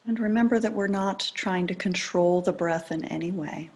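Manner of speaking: calm, unhurried meditation guidance with long pauses; guided meditation. Acted. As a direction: ease listeners gently into attending to the breath.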